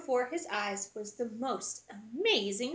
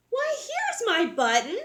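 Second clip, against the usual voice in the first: excited cry; 10 semitones higher, 4 dB louder than usual. Acted. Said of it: "he cried".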